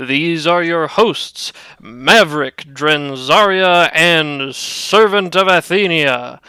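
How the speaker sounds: radio announcer voice. Acted. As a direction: announce it like an old radio serial. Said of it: "Do your radio announcer voice".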